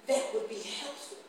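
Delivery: slow, measured retelling of his words; slow quote. Retold or imitated. Preacher slowly quoting the grateful car salesman. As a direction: draw out the man's reply. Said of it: "And then he wanna say".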